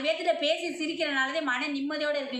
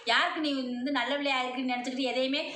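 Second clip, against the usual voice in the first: possessed goddess voice. Acted. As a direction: proclaim as the mother goddess in trance. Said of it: "அம்மா அருள்ல வந்து சொல்லிச்சு".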